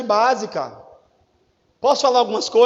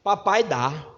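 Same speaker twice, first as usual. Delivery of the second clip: much softer, easy fatherly promise; soft fatherly yes; 5 semitones lower, 9 dB quieter, slower than usual. Retold or imitated. Father answering his son's request, softly. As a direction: give in to your son gently.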